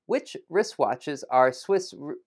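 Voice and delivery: slow, deliberate word-by-word delivery; careful tongue twister. Real, not acted. Teacher attempting a tricky tongue twister for learners, slow and careful. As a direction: take each word slowly to avoid tripping.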